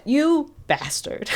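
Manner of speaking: slow, high mock outrage; outraged. Viewer yelling at the selfish fiance, slow mock outrage. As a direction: drag it out in mock fury at the fiance. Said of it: "And I went".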